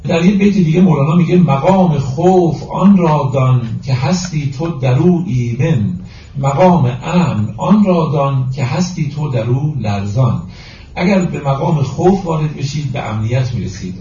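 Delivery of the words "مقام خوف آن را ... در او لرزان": slow, measured verse reading; deliberate, metrical Persian verse delivery; poetry recitation. Acted. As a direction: recite the couplet with drawn-out syllables.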